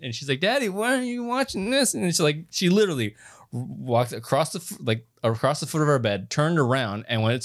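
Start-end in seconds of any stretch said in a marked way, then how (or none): 0.4-1.9 much higher mock little girl asking; daughter's voice. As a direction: pitch way up like a sleepy five-year-old. Father quoting sleepwalking daughter.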